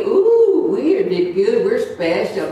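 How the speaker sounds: hammed-up proud squeal on ooh; a mock preen of pride; mock smug. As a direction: play the self-satisfied show-off, jokingly. Mocking self-congratulation.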